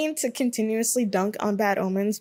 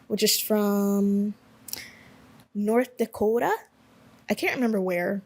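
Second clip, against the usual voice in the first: put-on awful Midwest accent. Placing a band from North Dakota, mock Midwest accent.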